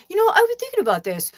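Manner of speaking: high, imitating brother; lightly mock his earnest tone. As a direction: brother pitching a career idea. Brother proposing plan.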